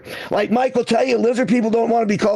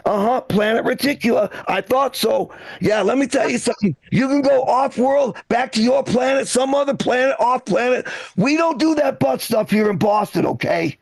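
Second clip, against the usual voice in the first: racist townie telling off. Retold or imitated. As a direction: chase the alien off in a hammed-up local voice. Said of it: "racist townie runs into an alien".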